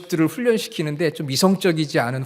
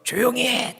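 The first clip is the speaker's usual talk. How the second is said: commanding cry; 9 semitones higher than usual. Acted. Jesus silencing the gale like an adult with children, high command. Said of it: "마치 그런 장면과 같아요".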